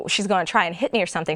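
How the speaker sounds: ordinary delivery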